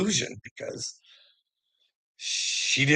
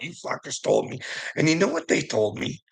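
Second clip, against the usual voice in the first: usual speaking voice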